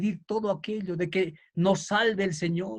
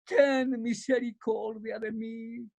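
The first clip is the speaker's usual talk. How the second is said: slow, drawn-out plea that eases off; clamor con fuerza; slower than usual. Acted. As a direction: call out slowly, then sink into pleading. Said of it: "Él hacía más fuerte y le decía". (súplica prolongada que se va apagando)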